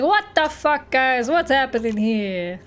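lightly imitated ridiculous accent; Stanley. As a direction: put on a silly mock accent. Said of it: "like, this ridiculous accent".

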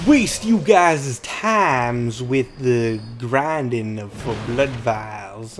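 a hint of a slow, dragged-out put-on voice; lightly drawn-out mock impression, very slow; odd put-on voice. Streamer drifting into a mock voice, lightly slowed. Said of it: "I don't know why I'm talking like that".

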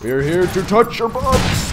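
high, drawn-out gleeful holler; playful battle cry. Pretend. Player announces the squad's arrival to enemies, gleeful holler.

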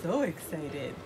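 voicing baby.

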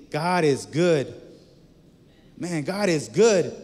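slow, weighty, leaning on good; slow and heartfelt declaration; slow emphasis. Shown as a demonstration. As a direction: savor each word like a testimony. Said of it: "to say".

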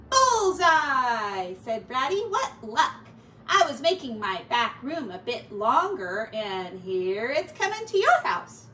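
loud, bouncy rat voice; Ratty explaining the hole to Mouse; cheery Ratty. Acted. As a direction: boom it out, pleased with himself. Ratty's voice in story.

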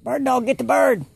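high, loud dog-training call; calling out a command. Real, not acted. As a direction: send the dog off after the bird.

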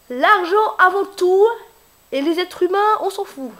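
joking cartoon villain, slow and loud; mock greedy villain. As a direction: ham up a heartless crook. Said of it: "Non, je déconne".

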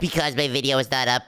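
stuffy sick-day voice. Acted. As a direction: talk like you're ill with a cold. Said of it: "that sick voice of yours".

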